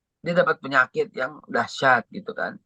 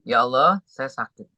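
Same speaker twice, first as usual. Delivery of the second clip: rengekan tertahan. Retold or imitated. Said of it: "tapi nggak mau ganggu orang tua". (merengek tertahan seperti anak kecil)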